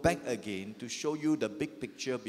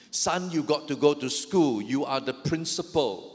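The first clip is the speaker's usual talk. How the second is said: louder, mock-stern mother; punchline mother; 6 dB louder than usual. Mother telling the principal son he must go, mock-stern and louder. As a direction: land the punchline firmly.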